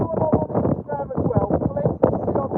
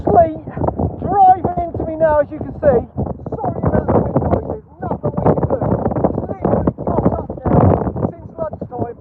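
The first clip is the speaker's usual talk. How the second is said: raised voice over gusts; shouting over wind; 5 semitones higher than usual. Real, not acted. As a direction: push the voice over howling wind. Filming on windy hill in sleet.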